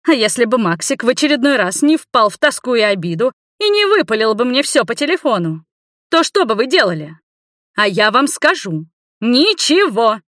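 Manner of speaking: high, heated tirade; indignant grandmother holding forth. A narrator's reading. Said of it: "уже сильно повысив голос".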